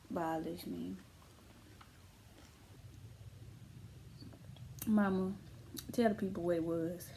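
lips around drinking straw; speaking between sips; talking with straw at lips. Real, not acted. Seen 2: Straw touches her lips while she speaks; drink held up.

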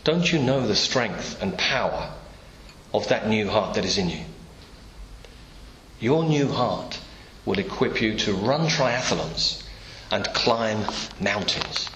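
slow, calm and reassuring; doctor calmly reassuring a worried heart patient. Pretend. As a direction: soothe a nervous patient, unhurried. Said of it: "And the doctor could reply".

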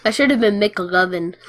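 words through a laugh. Real, not acted. Gamer amused by friend's name suggestion, laughing.

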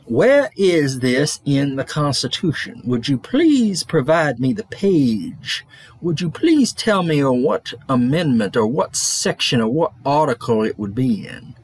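slow, pointed questions in an imitated Alabama accent; lightly put-on Alabama drawl, pressing for the page; thick Alabama accent. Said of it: "with his thick Alabama accent".

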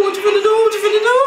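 high, panicky repeated question; alarmed anticipation. Real, not acted. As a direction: pitch jumps up in alarm. Alarmed as a move builds.

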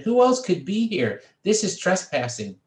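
high, loud indignant voice; outraged. A narrator's reading. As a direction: protest hotly. Lewis outraged.

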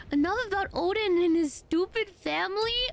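incredulous mocking repeat; mocking echo. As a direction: echo it back in disbelief. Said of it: "Oh my god, boy, please".

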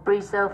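"preserve" slowly, stressed on "serve"; second-syllable stress. Shown as a demonstration. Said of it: "âm hai".

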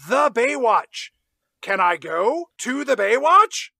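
loud, high Brian voice insisting on the Baywatch; Brian shouting. Retold or imitated. Brian loudly begging Ben Affleck to go, shouting. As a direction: yell it out like a stubborn Brian. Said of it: "impression of Justin Bartha as Brian".

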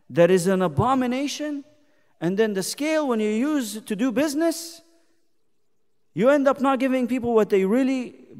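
emphatic preaching. Acted. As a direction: lay out the charge from the pulpit. Preaches scripture against cheating.

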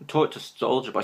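attempted Scottish accent. Vlogger repeating the Doctor's line, attempted Scottish accent. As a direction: try the Scottish line out with relish. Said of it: "my attempt at a Scottish accent".

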